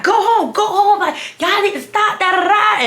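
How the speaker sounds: high, loud and laughing; mock them through laughter; cackling taunt. Mocking the other girls.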